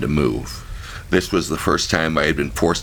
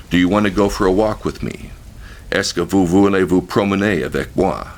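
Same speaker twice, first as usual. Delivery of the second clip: formal, polite; 5 semitones higher, 4 dB louder than usual. Retold or imitated. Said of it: "very formal and polite French".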